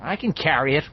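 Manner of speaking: a little winded; out of breath. Acted. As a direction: talk while short of breath. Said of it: "a little out of breath".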